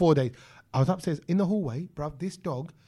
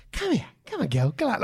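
fun coaxing tone; 3 semitones higher than usual. Retold or imitated. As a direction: make it sound fun for the dog. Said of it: "I tried to change my tone".

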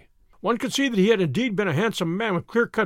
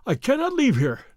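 firm; 6 semitones higher than usual. A narrator's reading. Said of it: "said my client firmly".

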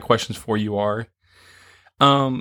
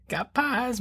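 mad scientist; much slower than usual. Pretend. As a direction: cackle like a villain with his loot. Gloating over pies, evil laugh.

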